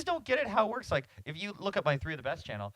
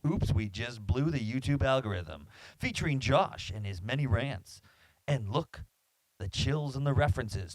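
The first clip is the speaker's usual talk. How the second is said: lightly voiced movie trailer announcer; a hint of a dramatic trailer narrator; epic trailer guy voice. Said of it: "I was trying to do my epic, my best epic, uh, trailer guy voice".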